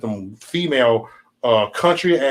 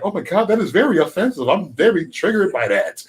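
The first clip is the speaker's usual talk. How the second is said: mock white liberal; 4 semitones higher than usual. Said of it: "some white liberal like".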